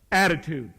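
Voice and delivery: Attitude said with feeling, falling firmly; felt word. Shown as a demonstration. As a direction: make them feel "Attitude.". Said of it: "when you say attitude, you feel it".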